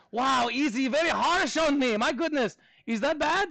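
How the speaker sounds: high-pitched mock Russian accent. Teacher reacting to harsh rating, high mock Russian accent. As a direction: protest playfully in a put-on Russian accent. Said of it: "do this in a Russian accent".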